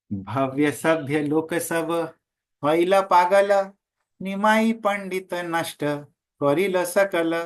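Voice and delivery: slow, measured chanting of the Bengali verse; verse recitation. Acted. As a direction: intone each line slowly like scripture. (धीमा, लयबद्ध पद पाठ)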